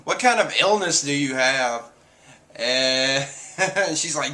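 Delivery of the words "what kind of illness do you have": mildly indignant retort; imitating a character freaking out; mock freak-out. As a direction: act out an offended outburst. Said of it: "Perona freaks out".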